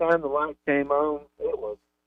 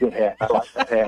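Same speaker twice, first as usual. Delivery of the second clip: mimicked under-the-breath mutter, much lower; 5 semitones lower than usual. Recalling people who came up to you about your hat, retelling an under-the-breath mutter. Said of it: "under their breath".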